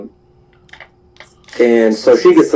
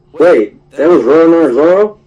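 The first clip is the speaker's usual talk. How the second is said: higher, incredulous question; shocked realization; 6 semitones higher, 4 dB louder than usual. Acted. Sergeant major learns the green-haired guy's identity, shocked. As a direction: blurt it as a stunned question, rising at the end.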